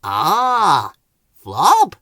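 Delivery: a light, knowing tone; a hint of being in on the secret; lightly knowing, rising on Flob; knowingly. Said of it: "tapping the side of his nose knowingly".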